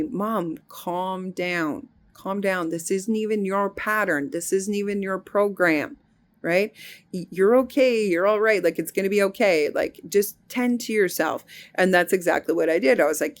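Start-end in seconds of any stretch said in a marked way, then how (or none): 0.0-11.4 lightly voiced daughter calming mom; daughter soothing. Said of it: "my daughter said to me".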